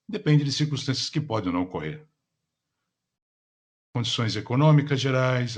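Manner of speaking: polished call operator announcement; customer service voice. Acted. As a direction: read it like a conference call host. Conference call operator opening. (voz de atendimento ao cliente)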